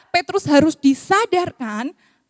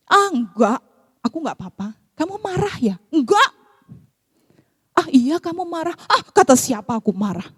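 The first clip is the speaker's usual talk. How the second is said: defensive denial. Retold or imitated. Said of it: "Padahal nadanya udah tinggi gitu kan".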